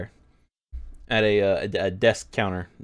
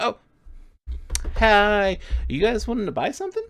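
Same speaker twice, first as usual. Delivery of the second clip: put-on high, quick kid voice; young child shopkeeper; 11 semitones higher than usual. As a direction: chirp it up like an eager little boy. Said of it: "And he's like".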